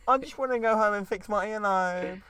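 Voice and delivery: mock upset girl. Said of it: "go back to character".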